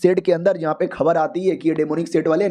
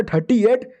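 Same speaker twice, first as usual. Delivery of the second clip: higher, questioning THIRTY EIGHT; surprised echo; 4 semitones higher, slower than usual. Acted. Hero questions the girl's leaf count, surprised echo. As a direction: echo "thirty eight" as a puzzled question.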